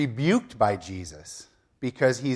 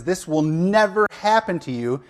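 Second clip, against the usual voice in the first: raised, higher-pitched mock yell; forceful retold protest, pitched up; 4 semitones higher than usual. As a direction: act out a yelled objection, only half full force. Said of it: "he yells at him".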